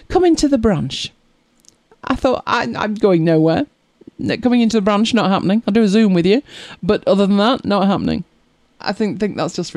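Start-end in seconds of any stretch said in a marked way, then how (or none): 0.1-8.2 indignant retort. Retold or imitated. Retorting to the bank letter.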